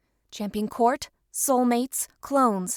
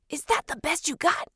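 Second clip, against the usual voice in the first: mental demand; 5 semitones higher than usual. Acted. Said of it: "Winston mentally demanded".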